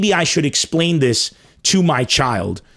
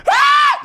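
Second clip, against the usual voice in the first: high, loud mock scream of terror; hammed-up shriek of fright; panicked scream; 4 dB louder than usual. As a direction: scream like a terrified kid.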